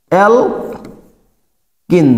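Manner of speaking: অ্যালকিন stretched very slowly, syllable by syllable; slowly drawn out. Shown as a demonstration. Teacher drilling students on the name, slowly stretched. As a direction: draw out অ্যালকিন for the class to copy. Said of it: "উচ্চারণ হবে কি?".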